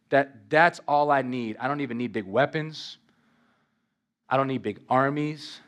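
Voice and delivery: low, measured, unhurried quote; preacher voicing Jesus. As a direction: speak low and deliberate, lightly playing Jesus. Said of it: "And Jesus says".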